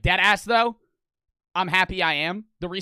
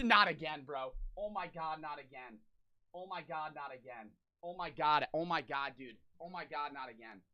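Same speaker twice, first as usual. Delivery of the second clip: suppressed laughter; 3 semitones lower, 11 dB quieter than usual. Real, not acted. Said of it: "I laughed because I know it sucks".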